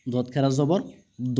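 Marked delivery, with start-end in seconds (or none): 1.4-1.4 long, steadily held vowel; drawn-out vowel. Shown as a demonstration. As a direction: stretch the vowel out evenly. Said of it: "টেনে পড়তে হবে". (টেনে পড়া, লম্বা স্বর)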